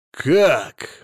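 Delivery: husband roars at the psychotherapist news; roaring. A narrator's reading. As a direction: bellow it in disbelief. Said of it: "взревел Сила Игнатьевич".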